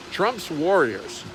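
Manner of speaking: mocking. Real, not acted. Mocking political catchphrase.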